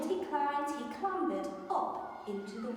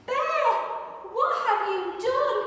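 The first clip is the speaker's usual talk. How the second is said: high, loud upset little mouse; dismayed cry; 10 semitones higher, 9 dB louder than usual. Acted. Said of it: "said Mouse".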